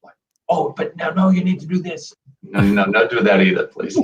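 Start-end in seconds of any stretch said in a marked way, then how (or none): 0.5-2.1 mock meddler. Mimicking an unwanted advisor.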